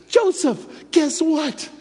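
high, bright-eyed call; eager coworker. Retold or imitated. Former atheist coworker greets him, eager high voice. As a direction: tease him with big news. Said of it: "and then she goes".

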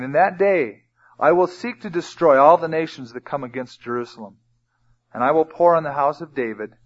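measured, emphatic verse reading; scripture reading. Acted. Preacher reads Zechariah's prophecy to the congregation, emphatic scripture reading. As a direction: read it out, building to the last words.

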